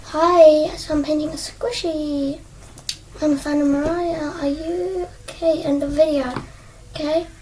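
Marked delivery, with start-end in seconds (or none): 0.0-5.6 chilled, relaxed. Acted. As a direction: greet viewers without any hype. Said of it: "I just feel, like, chilled, relaxed".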